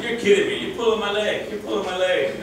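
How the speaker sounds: caller's startled disbelief as the prank victim; disbelieving. Retold or imitated. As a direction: act out Duke's disbelief on the phone. Retold prank call, Duke reacts.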